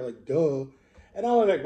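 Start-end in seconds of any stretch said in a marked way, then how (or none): 0.3-0.7 imitating a bossy, louder "Duh."; mock a kid being bossy with a punched "Duh."; a retold kid's bossy "Duh.". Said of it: "kind of bossy about it".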